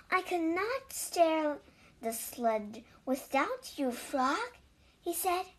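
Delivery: lively read-aloud with clear, measured phrasing; animated storytelling, words carefully spaced; children's story narration. A narrator's reading. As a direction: read a picture book to young children.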